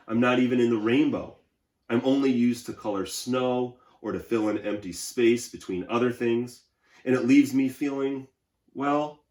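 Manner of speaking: wistful white crayon feeling empty; lonely White Crayon. Acted. Reads White Crayon's letter aloud.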